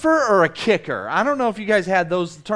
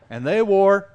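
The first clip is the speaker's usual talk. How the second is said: mock country drawl; 3 dB louder than usual. Shown as a demonstration. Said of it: "you have to say it like that".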